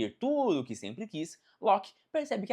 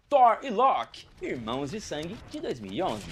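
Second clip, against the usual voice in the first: title announcement; 4 dB louder than usual. Acted. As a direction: call out the title like a headline. Anúncio de título da seção. (anúncio de título, lento e forte)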